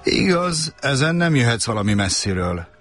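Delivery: put-on light childish voice, insistent; little prince. A narrator's reading. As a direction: play a small boy asking earnestly. Prince reasons.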